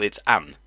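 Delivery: "an" stressed as the correction. Shown as a demonstration. Correcting someone's grammar, "an" stressed. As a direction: land firmly on "an". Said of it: "not a idiot".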